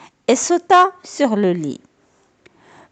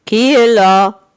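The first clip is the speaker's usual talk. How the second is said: big, slow, louder voice; a heavy voice that should not be grandma's; wolf's gruff voice; 6 dB louder, slower than usual. A narrator's reading. Wolf in grandmother's bed asking who knocks, gruff and slow. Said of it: "Comme le loup avait une grosse voix".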